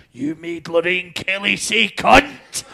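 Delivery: hammed-up reverent proclamation, drawn out; mock awe. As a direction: imitate an awestruck team hailing a hero. Team's awed reaction acted out.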